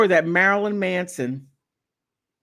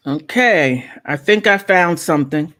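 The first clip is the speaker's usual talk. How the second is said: louder, eager announcing; real excitement, louder than usual; excited loud talk; 7 dB louder than usual. Real, not acted. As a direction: burst out with the find. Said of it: "I don't mean to be talking like that".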